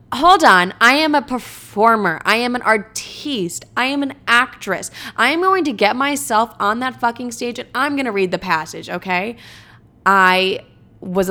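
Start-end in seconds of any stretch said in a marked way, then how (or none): 0.1-9.4 grand diva declaration. Retold or imitated. Retelling her tipsy funeral boast to family, grandly hammed-up. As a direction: proclaim it like a grand stage artiste. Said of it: "And I was like".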